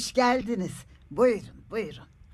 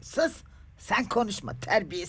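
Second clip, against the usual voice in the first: cross scolding; 3 semitones higher than usual. Acted. Confused mother rebukes the visiting neighbour, cross. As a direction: hush the guest crossly. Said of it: "Neden kızdın sen şimdi bana?".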